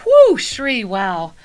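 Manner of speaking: breathless, puffing between words; winded and catching breath. Real, not acted. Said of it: "I'm out of breath".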